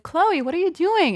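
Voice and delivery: high-pitched retold puzzlement; puzzled calling out. Woman spotting her little cousin hiding in a bush, puzzled call. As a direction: call out high, mildly baffled.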